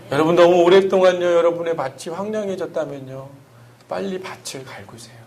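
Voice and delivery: earnest sermon voice swelling and falling; sermon preaching. Acted. Pastor preaching Psalm 23 to the congregation, earnest sermon delivery.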